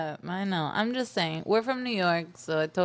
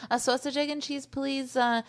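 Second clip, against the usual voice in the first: New York order; 4 semitones higher than usual. Retold or imitated. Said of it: "I can just say it how I wanna say it".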